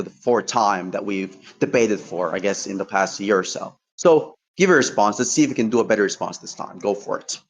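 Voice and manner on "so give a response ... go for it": breathless after a long rant; out of breath. Real, not acted. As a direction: talk while short of breath. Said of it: "You're out of breath for the entirety of that ramble fest".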